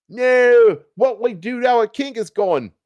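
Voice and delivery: a loud, high hammed-up wail of grief; mock wailing. A narrator's reading. Soldiers mourning their fallen king, hammed-up wail. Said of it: "wept the English soldiers in sorrow".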